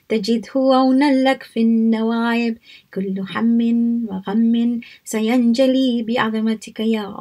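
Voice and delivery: brisk, rhythmic Arabic recitation; devotional recitation. Acted. Teacher leading listeners in recitation, brisk and rhythmic. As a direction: lead the congregation through the prayer. Leads group recitation of Nadi Aliyan.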